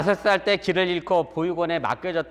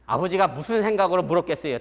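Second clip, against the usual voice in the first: normal talking voice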